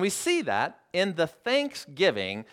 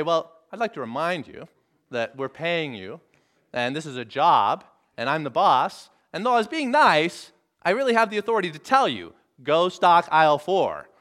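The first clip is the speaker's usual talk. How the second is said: acted boss building from measured to louder; firm authority; 3 dB louder than usual. Boss reminding a balky employee who pays him, increasingly firm. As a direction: start politely, then lay down the order. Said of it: "that authority and that harshness".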